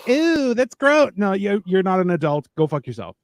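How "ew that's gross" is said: slow, higher mocking "ew"; drawn-out mocking disgust; mock prissy disgust. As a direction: sneer it out like a prissy snob. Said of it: "overly effeminate women who are like".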